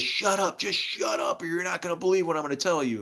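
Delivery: high, fast commanding hush; bossy lady. Retold or imitated. Lady silencing him before her revelation. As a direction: cut him off impatiently. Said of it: "she goes".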